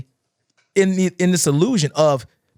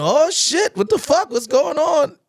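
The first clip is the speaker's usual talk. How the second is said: mock hype host; 10 semitones higher than usual. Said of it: "John's on the mic going".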